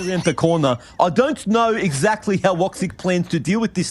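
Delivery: hammed-up Aussie caster accent. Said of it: "It might actually be your real accent".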